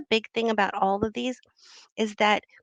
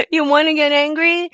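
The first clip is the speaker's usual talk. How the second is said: mock anger; 8 semitones higher, 9 dB louder than usual. Mock angry outburst, laughing.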